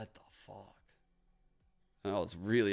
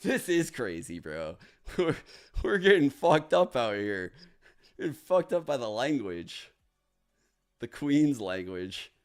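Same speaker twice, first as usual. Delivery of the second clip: excited; 5 semitones higher, 9 dB louder than usual. Real, not acted. Laughing at failing the round.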